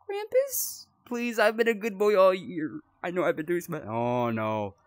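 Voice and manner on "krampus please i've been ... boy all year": put-on high, pleading good boy; mock pleading. Player pleading with Krampus, hammed-up begging. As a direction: beg like a scared kid.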